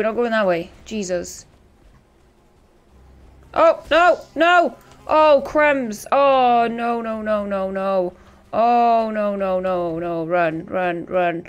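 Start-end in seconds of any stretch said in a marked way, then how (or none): 3.5-11.4 being chased. Real, not acted. Monster spotted, fleeing.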